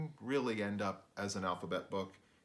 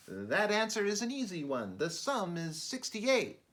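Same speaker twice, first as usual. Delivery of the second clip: smug creature answer; 10 semitones higher, 3 dB louder than usual. Acted.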